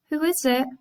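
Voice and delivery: high frail call; old grandma. Acted. Grandma calling from bed, high and frail. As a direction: call out like a weak granny.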